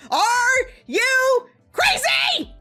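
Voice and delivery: high, loud, drawn-out scream. Retold or imitated. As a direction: scream each word slowly in disbelief. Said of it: "I scream at him".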